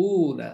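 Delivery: long drawn-out oo in "উনা"; pronounced "উনা". Shown as a demonstration. Teacher showing the plural ending, pronouncing "উনা" with long oo. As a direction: stretch "উনা" slowly as oo-na. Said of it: "উচ্চারণ হবে উনা".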